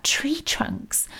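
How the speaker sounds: whispered, wondering "Tree trunks?" softly to himself; puzzled whisper. A narrator's reading. Mo alone in the dark, puzzling over Nan's words, whispered. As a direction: breathe "Tree trunks?" as a baffled question. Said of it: "What had Nan been going on about".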